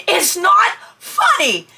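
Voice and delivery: slow, tearful protest; near tears. Retold or imitated. Husband laughing at her fear, tearful protest. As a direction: whimper it, upset he laughs. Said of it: "then he started laughing".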